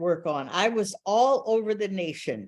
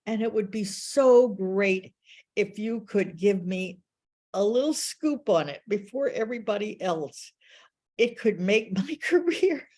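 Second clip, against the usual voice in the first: eager pitch; 4 semitones higher than usual. Retold or imitated. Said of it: "I said".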